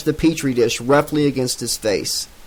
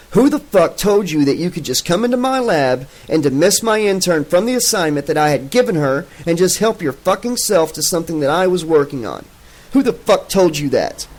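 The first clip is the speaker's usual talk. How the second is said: shrill rant; 4 semitones higher than usual. Acted. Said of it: "Gottman demanded somewhat shrilly".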